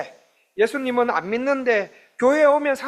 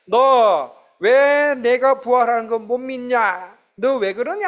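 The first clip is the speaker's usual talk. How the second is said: slow, loud scolding; a preacher voicing a scolding Jesus, slow and loud; rebuking; 3 semitones higher, 3 dB louder, slower than usual. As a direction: drag it out like a stern rebuke. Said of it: "책망하는 것이".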